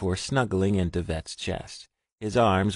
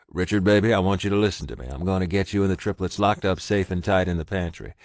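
louder, urgent, steady orders; urgent commands; 5 dB louder than usual. Acted. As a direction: get him to safety now. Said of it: "he commanded his mate".

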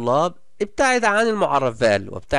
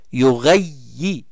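يغيي read slowly, stressing the doubled letter; slow stressed doubling; much slower than usual. Shown as a demonstration. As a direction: lean on the shadda. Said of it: "هذه شدة مع الكسر". (نطق بطيء مع تشديد)

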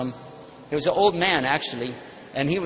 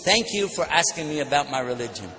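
calm reply modelled. Shown as a demonstration. Preacher teaching the crowd the gentle reply. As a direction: show the audience the calm answer. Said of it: "I know we shouldn't do that".

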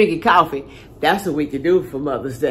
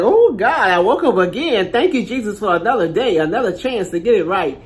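grateful wake-up cry; 3 semitones higher than usual. Retold or imitated. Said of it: "I'll be like".

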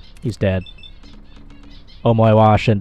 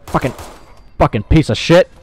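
angry cursing; 2 semitones higher than usual. Real, not acted. Player very angry at an enemy, angry cursing. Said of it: "sorry, I'm very angry".

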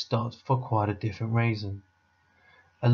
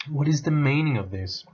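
louder, higher outraged witch; imperious witch demand; 5 semitones higher, 4 dB louder than usual. A narrator's reading. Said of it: "asked the witch".

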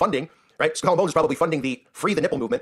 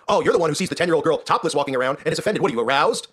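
mock scorn climbing in pitch; mocking critic building; 3 semitones higher than usual. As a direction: mimic a scoffing critic, building to a shout. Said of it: "They're gonna go".

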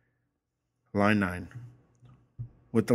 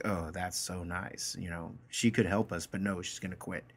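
sarcastic; 5 dB quieter than usual. Retold or imitated. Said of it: "like, trying to be sarcastic".

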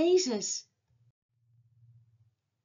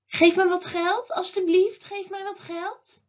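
higher begging call, loud at first; 4 semitones higher, 5 dB louder than usual. A narrator's reading. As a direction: call out to beg from passers-by. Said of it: "Bartimeus stopt met roepen". (bedelend roepen)

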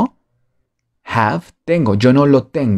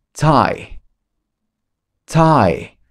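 slow model; 4 semitones higher than usual. Shown as a demonstration.

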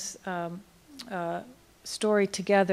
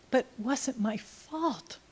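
put-on small boy's question; 4 semitones higher, slower than usual. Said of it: "he was, like, saying".

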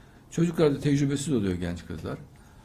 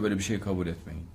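quoting Bediüzzaman; 5 semitones lower, 5 dB quieter, faster than usual. Retold or imitated. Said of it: "Bediüzzaman diyor".

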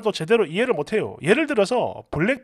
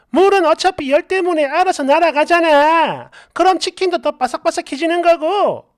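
higher-pitched, insistent comeback; indignant self-defence; 4 semitones higher than usual. Acted. Wife defending the water in the pan, indignant protest. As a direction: protest as if it were obvious.

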